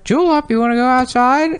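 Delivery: spiteful parrot mimics the owner to set off the dog; parrot imitating owner. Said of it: "hear the parrot go".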